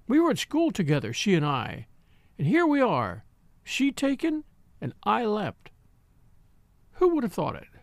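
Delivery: a hint of a frail old lady gloating. A narrator's reading.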